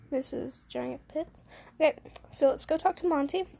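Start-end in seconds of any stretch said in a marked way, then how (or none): 0.1-1.4 soft, slow mocking mutter under the breath; a player's muttered crude jab at the teacher; snide slow aside. Real, not acted. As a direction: drop it quietly, dragging each word.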